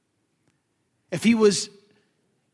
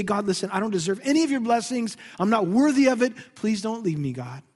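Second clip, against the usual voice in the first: humble plea. Retold or imitated. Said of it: "We say".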